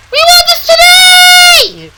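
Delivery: yelling trucks. Acted. Freight cars yelling demands at the engines, loud and high. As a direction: yell it, demanding. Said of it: "yelled the freight cars".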